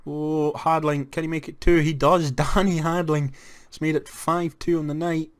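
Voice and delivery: rising excitement. Real, not acted. Goal being scored live.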